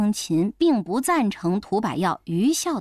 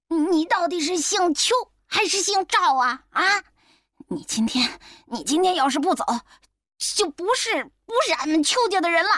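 气冲冲; 6 semitones higher than usual. Acted. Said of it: "气冲冲地在诊室的门口喊".

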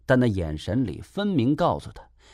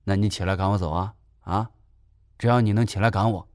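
cheeky; 2 semitones lower, faster than usual. Acted. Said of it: "赖皮地说道".

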